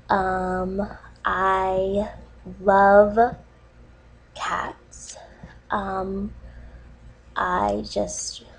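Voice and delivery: halting, choking up, fading to a near whisper; getting emotional. Real, not acted. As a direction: let the voice sink and catch with long pauses. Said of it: "sorry, I'm getting emotional".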